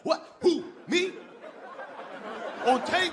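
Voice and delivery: hammed-up terrified what; panicked disbelief. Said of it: "he'll shit himself".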